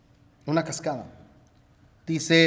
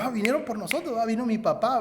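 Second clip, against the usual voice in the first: joyful relief; 5 semitones higher, 4 dB quieter than usual. Retold or imitated. Captives hear rescuers arrive.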